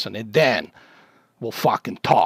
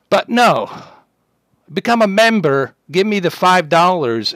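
louder and higher, furious outburst at the troll; angry yelling; 5 semitones higher, 5 dB louder than usual. Real, not acted. Streamer yelling at a chat troll, real angry shout. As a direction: bark it out, fed up.

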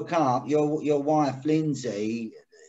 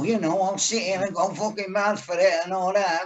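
mock Northern accent, slightly raised pitch; a rock singer; 3 semitones higher than usual. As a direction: lightly caricature a Northern English rocker's accent. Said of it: "do you want me to sound like a rock singer?".

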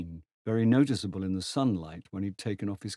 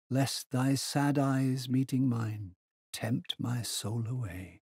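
quoting poetry; 4 semitones higher than usual. A narrator's reading. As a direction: recite a sad love poem, unhurried. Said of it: "he quoted".

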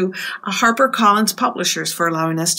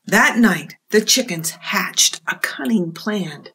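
lively picture-book read-aloud; reading to children. A narrator's reading. Librarian reading a storybook to children, lively. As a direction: tell it to the little ones with expression.

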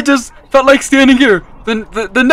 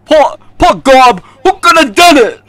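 a touch of a hammed-up detective lament; overdone detective. Player plays a detective over a body, hammed-up lament. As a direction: ham up the grieving sleuth. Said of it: "You are terrible at this".

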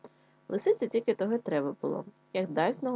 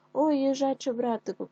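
higher, louder panicked cry; fox crying for help; 7 semitones higher, 5 dB louder than usual. A narrator's reading. Trapped fox cries to the hedgehog for help. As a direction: shout for rescue in fright. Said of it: "кричить лисичка".

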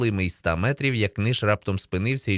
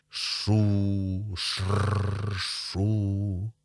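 rustling corn imitation; much slower than usual. A narrator's reading. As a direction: imitate leaves rustling with long sh sounds. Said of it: "шурхотить кукурудза".

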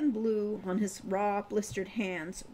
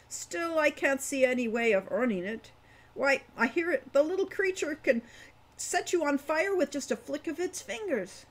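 put-on old dwarf; 5 semitones higher than usual. Wolfgang gossips about kobold.

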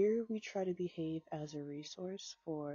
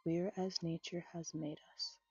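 poem reading. A narrator's reading. Reads second poem aloud.

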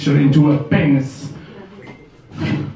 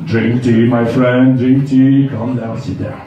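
soothing seller; 5 semitones lower than usual. Retold or imitated. Seller calming him.

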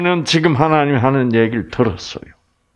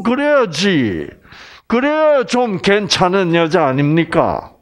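normal talking voice

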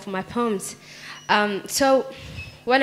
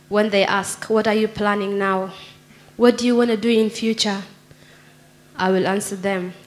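poem recitation. Acted. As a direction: recite it line by line, letting the refrain land. Recites her own poem.

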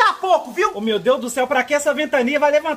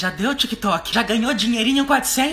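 fed-up rant. Acted. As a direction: yell it like you've snapped at the ads. Fed-up rant about TikTok ads.

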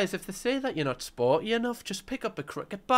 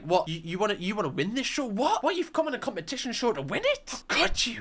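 shocked islander voice, higher; hammed-up appalled gasp at ambition; mock outrage; 5 semitones higher than usual.

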